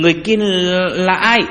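loud, high frightened challenge; trembling question. A narrator's reading. Cố Chí Hào questioning the strange old woman, trembling voice. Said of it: "hỏi với giọng run rẩy".

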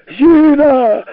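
high, loud scared bellow; frightened yell. A narrator's reading. Sharikov bawls for the maid, high and loud. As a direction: bawl for help in fright. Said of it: "орал испуганный Шариков".

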